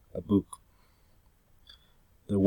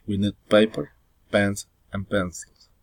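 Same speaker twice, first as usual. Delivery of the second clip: "paper" pitched up as the list opens; rising intonation in a list. Shown as a demonstration. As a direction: lift "paper", then let "pencils" fall. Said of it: "rising intonation".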